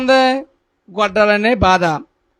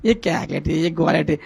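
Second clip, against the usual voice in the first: softer, dismissive grumble about the noise; scornful grumble; 3 semitones lower, 5 dB quieter than usual. Retold or imitated. Churchgoer annoyed by a woman praying aloud, softer and scornful. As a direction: mutter it with contempt, as if the shouting annoys you. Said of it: "కొంతమంది ఇలాగ ఉంటుంది".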